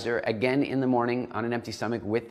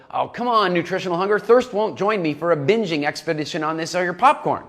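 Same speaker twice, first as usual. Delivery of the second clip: higher, louder nagging voice of a needy character; high and pushy, whining for company; whiny pleading; 5 semitones higher, 6 dB louder than usual. Acted. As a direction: beg a friend to join the binge. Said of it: "emotional hunger is gonna go".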